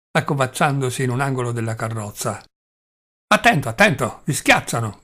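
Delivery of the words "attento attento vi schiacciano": officer's shout. Acted. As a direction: call the warning across the crowd. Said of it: "gridò un agente".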